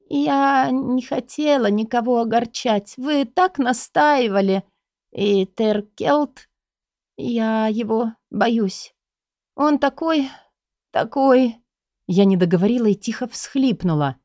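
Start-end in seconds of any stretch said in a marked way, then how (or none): 0.1-11.6 higher, slow, put-on timid voice; feigned fearful plea. Heroine fakes fear of the mage to her guardian, timid and higher. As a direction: act scared and close to tears.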